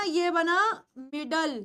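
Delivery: मिडल said slowly, ending in a clear ल; slow model word. Shown as a demonstration. Teacher modelling मिडल for the class, slowly. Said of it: "एल ई की sound होती है ल".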